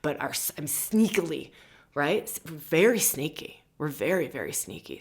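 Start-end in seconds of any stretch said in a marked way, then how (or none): 4.3-5.0 soft unvoiced whisper; sly hushed aside. Real, not acted. Conspiratorial aside.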